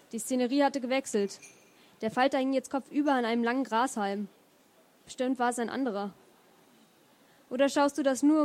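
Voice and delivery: measured literary reading aloud; story narration. Acted. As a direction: read the chapter to an audience, phrase by phrase. Liest aus eigenem Buch vor. (ruhig vorgetragene Romanlesung)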